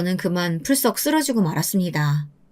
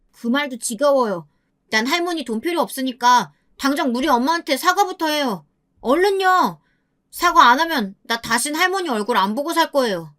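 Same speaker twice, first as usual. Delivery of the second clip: defiant grandson; 4 semitones higher than usual. Acted. 손자가 사과 요구.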